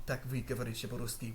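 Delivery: halting learner's Russian accent; terrible Russian accent. Real, not acted. Learner trying Russian on a lady from Crimea, rough Russian accent. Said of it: "which is my terrible Russian accent".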